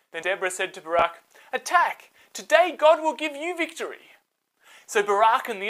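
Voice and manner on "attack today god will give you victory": high, loud rallying shout; rally the troops to charge; battle command. Acted. Deborah commands attack.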